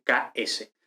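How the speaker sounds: "K S" spelled out as k plus s. Shown as a demonstration. Teacher spells out xi for students. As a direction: split the xi into k and s. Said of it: "que es como una letra X".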